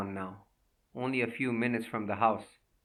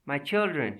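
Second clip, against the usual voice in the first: crying out; 3 semitones higher than usual. Acted. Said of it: "she cried".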